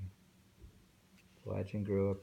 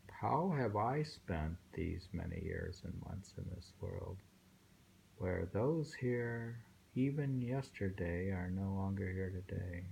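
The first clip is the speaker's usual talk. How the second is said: poem recital. Acted. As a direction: let each line of the poem settle, unhurried. Rereads poem.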